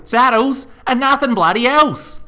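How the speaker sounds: high, loud, slow shouted rule; furious yell. A narrator's reading. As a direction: spit out each word in a rage. Mother yelling at son.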